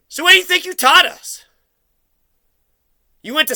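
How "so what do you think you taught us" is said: higher, pressing demand; pitched-up demand at the mother; angry repeated question. Real, not acted. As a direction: push the question at her, pitched up in anger. Confronting mother, repeats question angrily.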